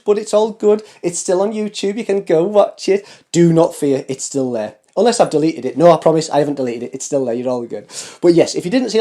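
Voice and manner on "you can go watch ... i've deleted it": normal talking voice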